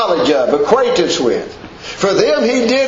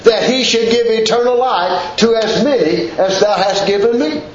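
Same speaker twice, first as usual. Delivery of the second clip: fervent preacher's scripture reading; preaching scripture; 3 semitones higher than usual. Acted. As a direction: proclaim the verses like a pulpit preacher.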